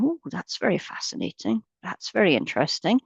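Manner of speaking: a hint of measured fascination, observing with interest; Mister Spock. Meditation teacher imitating Spock for the group, lightly intrigued. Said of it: "he's famous for going".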